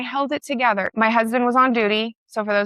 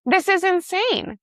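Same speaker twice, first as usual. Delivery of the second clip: much higher, slow, stunned disbelief; exasperated disbelief; 10 semitones higher, slower than usual. Retold or imitated. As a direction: say it like you can't believe it. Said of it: "And I'm like".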